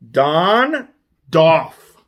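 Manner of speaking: "Don" then "Doff" called out clearly; call-and-response drill. Shown as a demonstration. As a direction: lead the class: "Don", "Doff". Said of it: "say it with me".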